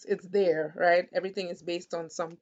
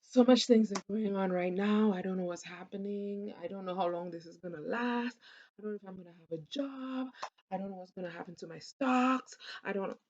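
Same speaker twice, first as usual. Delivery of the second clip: anxious worries spilling out, a bit fast; with emotion; faster than usual. Shown as a demonstration. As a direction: pour the fears out with feeling. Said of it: "So it's with more emotion".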